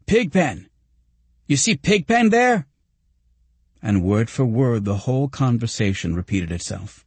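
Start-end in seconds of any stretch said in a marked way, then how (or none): 0.1-2.7 very high, excited call and question; exclaiming. A narrator's reading. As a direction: nudge a friend with eager wonder. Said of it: "he nudged me again".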